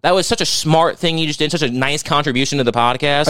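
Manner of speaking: sarcastic praise. Acted. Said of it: "your tone's indicating".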